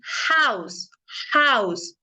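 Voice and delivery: house with a strong breathy h, almost like Spanish j; model pronunciation. Shown as a demonstration. Teacher modeling house for students, h sounded. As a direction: say house with an audible h. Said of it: "aquí".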